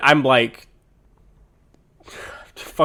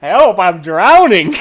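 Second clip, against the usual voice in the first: drowning; 4 semitones higher, 7 dB louder, slower than usual. Pretend. Jokes he's sinking without help.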